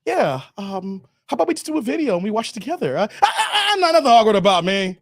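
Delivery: mumbling, halting awkward host with nervous laughs; socially awkward guy. Pretend. Awkward vlogger stalling his own chat, lightly hammed-up. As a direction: play a shy streamer fumbling for words. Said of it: "if I was socially awkward, I'd be like this".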